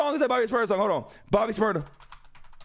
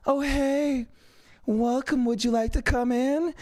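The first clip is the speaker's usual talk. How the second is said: lightly voiced welcoming greeter, evenly pitched; slow, drawn-out mock invitation; imitated greeter; slower than usual. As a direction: mimic an eerily polite host. Mimicking greeters with the eyes.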